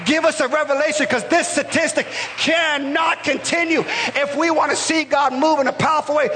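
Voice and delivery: rising preacher's call to the church; preaching. Acted. Pastor rallying the church, preaching. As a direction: preach it out to the congregation.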